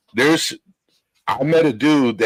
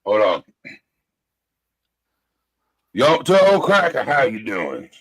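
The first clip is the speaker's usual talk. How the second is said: hint of a Southern accent. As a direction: greet him in a mock Southern accent. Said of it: "let me say my Southern accent".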